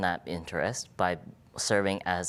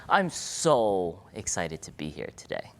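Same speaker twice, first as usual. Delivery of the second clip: emphasized excitement. Shown as a demonstration. Repeating it to the audience with exaggerated excitement. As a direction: lean hard on I'm, say it with extra zeal. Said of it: "to emphasize how excited I am".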